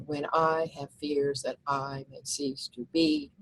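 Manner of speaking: slow, measured poem reading; reading verse aloud. Shown as a demonstration. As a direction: read it like a poem, unhurried. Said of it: "look at the first, first line".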